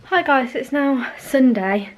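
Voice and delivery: breathless greeting, panting between words; out of breath. Real, not acted. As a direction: talk while catching your breath. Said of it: "Oh, I'm out of breath".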